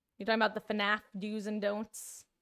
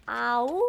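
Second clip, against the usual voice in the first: a short, half-hearted wolf howl; mock howl at the monster; weak howl attempt; 2 semitones higher, 7 dB louder than usual. Shown as a demonstration. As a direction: try a howl, lightly, and give it up. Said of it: "I can't do a very good howl".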